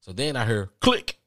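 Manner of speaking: normal talking voice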